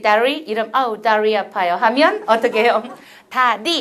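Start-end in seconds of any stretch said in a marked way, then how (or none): 0.0-1.7 imitated foreign learner, English r in 다리; foreigner's accent. Foreign learner saying their leg hurts, English-accented Korean. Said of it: "외국인들이". 3.3-3.8 다리 with the ㄹ tapped like d; Korean tap. Shown as a demonstration. Teacher correcting a foreigner, tapped Korean 다리. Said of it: "이렇게".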